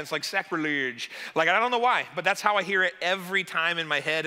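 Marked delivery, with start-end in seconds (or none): 0.2-1.1 "Sacrilege" in a mock accent, last syllable rounded; put-on accent. Shown as a demonstration. Pastor sharing how he hears the word, put-on accent. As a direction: say "Sacrilege" with an affected accent, ending like "-ludge". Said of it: "I wanna say it with an accent".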